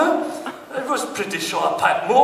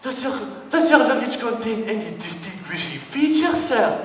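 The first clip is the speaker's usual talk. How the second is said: desk lady; 5 semitones higher than usual. Retold or imitated. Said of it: "desk lady voice".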